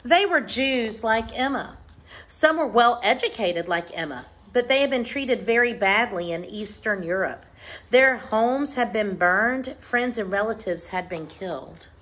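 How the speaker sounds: measured, clearly phrased picture-book read-aloud; reading to children. Acted. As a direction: read it out to a class, pausing between phrases. Reads picture book to class.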